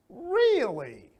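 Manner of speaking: high and loud, amazed; surprised. Shown as a demonstration. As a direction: react with real surprise. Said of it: "See, up and high".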